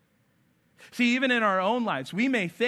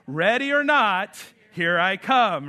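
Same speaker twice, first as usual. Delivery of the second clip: drawn out, louder playful game call; 4 dB louder, slower than usual. Retold or imitated. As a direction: call it out like the seeker in hide and seek. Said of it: "those famous words".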